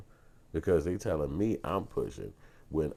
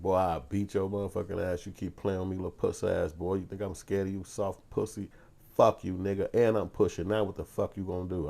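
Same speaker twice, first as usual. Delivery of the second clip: raised, higher-pitched angry tirade; mad South Side dude; 6 semitones higher, 5 dB louder than usual. Retold or imitated. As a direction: retell going off on a crowd, heated and cussing. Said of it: "I went in. I was on mad mode".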